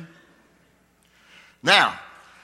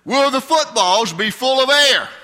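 lachend; 8 semitones higher, 7 dB louder than usual. Real, not acted. Joke about deflated footballs.

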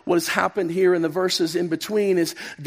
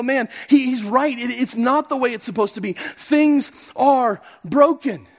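heartfelt inner agreement; 5 semitones higher, 4 dB louder than usual. Pretend. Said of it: "something in you just respond and go".

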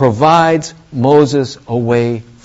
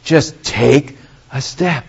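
patient coaxing; 3 dB quieter, slower than usual. Acted. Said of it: "He just says".

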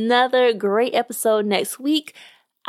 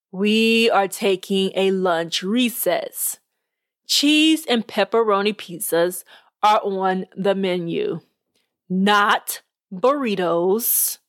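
slow, deliberate judge laying down the rule; a lightly voiced, stern judge emphasizing; 3 semitones lower, slower than usual. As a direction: spell it out slowly to the squabbling teams. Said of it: "he emphasized".

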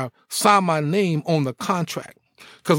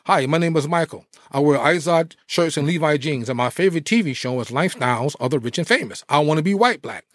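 mock preppy wannabe.

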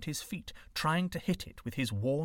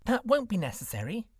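gentle white snake; 9 semitones higher than usual. A narrator's reading. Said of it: "the white snake replied".

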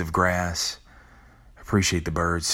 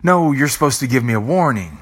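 higher, louder protest, pleading with death; playing a person begging death for more time; 5 semitones higher, 3 dB louder than usual. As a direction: insist you were owed a warning, rushed. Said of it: "you say".

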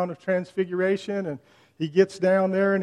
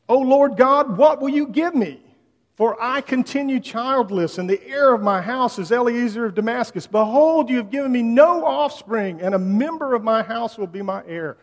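loud, high anguished cry to God; a childless man shouting his frustration at God; exasperated scream; 5 semitones higher, 6 dB louder than usual. Acted. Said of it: "almost screams in exasperation".

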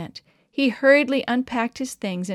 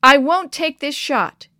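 loud defiant shout of refusal; 6 semitones higher, 8 dB louder than usual. A narrator's reading. Boy shouting no at the elder. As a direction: yell it, refusing outright. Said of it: "he shouted".

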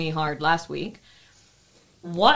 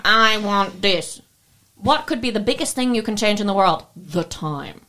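put-on Russian accent; 4 dB louder than usual. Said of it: "insulted your accent with my Russian accent".

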